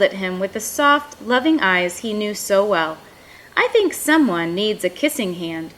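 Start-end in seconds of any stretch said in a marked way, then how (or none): 3.6-5.7 warm and inviting. Acted. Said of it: "in a voice that was warm and inviting".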